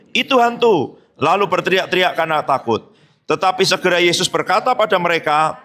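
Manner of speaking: steady reading of a Bible passage; scripture reading. Acted. A pastor reads Matthew aloud with the church. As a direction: read the passage evenly with the congregation.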